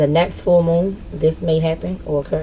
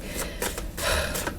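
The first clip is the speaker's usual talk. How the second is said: long, soft exhale; sick sigh; 12 dB quieter than usual. Real, not acted. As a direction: sigh through feeling queasy. Feels sick to her stomach.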